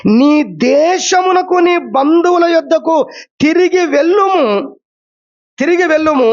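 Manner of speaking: slow solemn reading of the verse; slow scripture quote. Acted. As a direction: lay out the command slowly. Quoting God's command to Jacob.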